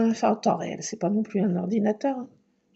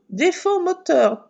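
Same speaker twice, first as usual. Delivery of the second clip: slow robotic higher car warning, a bit louder; car alarm voice; 7 semitones higher, 4 dB louder, slower than usual. Retold or imitated. Imitating the car's alarm to listeners, slow and robotic. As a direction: chant it like a dashboard alarm. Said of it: "Avec une alarme".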